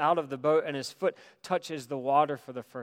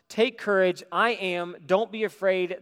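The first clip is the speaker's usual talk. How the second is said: louder and higher, ringing out over the storm; bold call; 5 semitones higher, 7 dB louder than usual. Acted. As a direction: call it across the waves with confidence. Jesus calls to the disciples.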